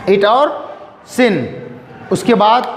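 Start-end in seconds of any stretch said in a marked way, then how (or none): 0.1-1.6 slow demo. Shown as a demonstration. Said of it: "छोटी ई में क्या है".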